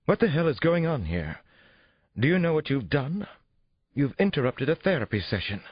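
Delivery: high, indignant scolding; frightened, angry outrage. A narrator's reading. Therapist berates police for interrupting her session, outraged demand. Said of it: "She looked frightened and angry".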